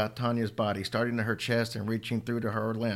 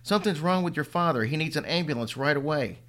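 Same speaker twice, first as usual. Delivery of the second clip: frantic; 5 semitones higher than usual. Acted. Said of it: "yelled frantically".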